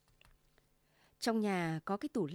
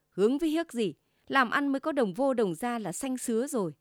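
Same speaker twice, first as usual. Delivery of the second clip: scornful huff; 3 semitones higher, 4 dB louder than usual. Acted. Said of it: "Chị Tư hừ một tiếng".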